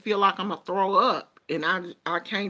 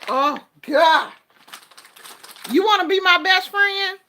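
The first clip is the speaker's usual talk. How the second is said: higher and louder delighted gush; excited gush; 9 semitones higher, 8 dB louder than usual. Real, not acted. A woman raving to viewers about Raisinets, excited.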